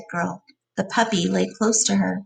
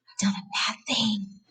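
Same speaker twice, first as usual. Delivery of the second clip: soft scared whisper; frightened whisper; 7 dB quieter than usual. A narrator's reading. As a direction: whisper it, horrified. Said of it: "he whispered in fright".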